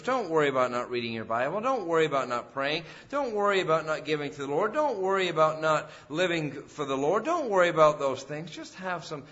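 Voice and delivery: the devil as a friendly tempter, coaxing and reassuring; sweet-talking devil. Acted. Preacher voicing the devil luring believers, mock-friendly coaxing. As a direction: coax them toward sin like a smooth false friend. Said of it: "he comes along as that friend".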